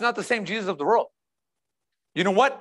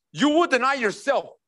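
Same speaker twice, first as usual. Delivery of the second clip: firm, raised preaching voice; emphatic command; 3 semitones higher than usual. Real, not acted. Preacher tells believers what following means, emphatic. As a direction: declare it outright to the whole room. Preacher's first, forceful take.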